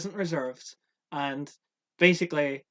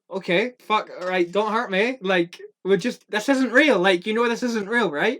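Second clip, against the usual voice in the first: higher, louder, rushed pleading; scared actor begging not to be hurt; panicked pleading; 4 semitones higher, 6 dB louder than usual. Retold or imitated. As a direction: plead in mock panic, pitch climbing. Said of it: "and I'm like".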